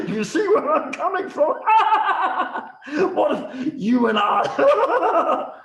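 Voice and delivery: very high, loud laughing minister; scheming giggle. Acted. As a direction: cackle through the plotting.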